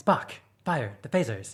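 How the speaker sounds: vehement, halting, forceful delivery. Showing how captains trained in the school of Kirk speak: Kirk speaking vehemently. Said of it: "trained in the school of Kirk".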